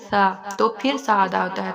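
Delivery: سا kept thin and soft, tongue tip touching the front teeth; a fine, light سا; thin soft saa. Shown as a demonstration. Teacher modelling the soft سا sound. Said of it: "بالکل باریک اور نرم پڑھتے ہیں".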